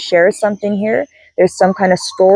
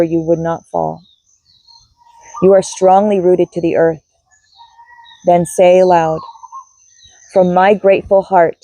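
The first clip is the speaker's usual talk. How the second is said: guided meditation. Acted. Grounding meditation and closing prayer.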